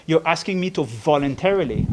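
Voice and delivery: "voluntarily" set out deliberately; stress on voluntarily. Real, not acted. Lawyer refusing a requested undertaking, stress on "voluntarily". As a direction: lean on the word "voluntarily". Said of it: "I want to emphasize that word".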